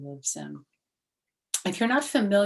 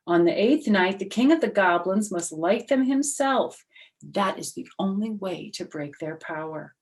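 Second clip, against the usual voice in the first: solemn rabbi; 4 semitones higher, 7 dB louder than usual. Acted. Rabbi instructs Herschel.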